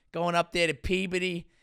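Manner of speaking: mock Boston local; Boston accent. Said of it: "with a Boston accent".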